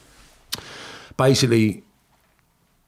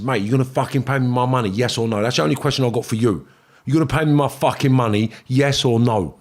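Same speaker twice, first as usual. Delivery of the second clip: threatening demand. Retold or imitated. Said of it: "So I switched on him".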